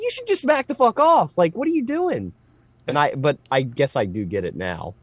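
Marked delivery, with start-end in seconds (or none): 0.0-2.3 mock indignant comeback. Retold snap back at stranger.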